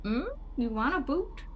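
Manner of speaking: playful offer. Pretend. Showing a boot to the gargoyles, playful offer.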